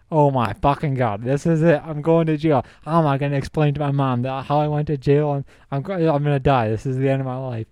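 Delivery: imitating his own past terror, hammed up; mock panic. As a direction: spiral into a half-comic panic. Retelling panic about going to jail.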